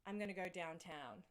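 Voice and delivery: understated Australian accent; natural Australian vowels on the line; Aussie accent. Shown as a demonstration. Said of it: "say it with your Aussie accent".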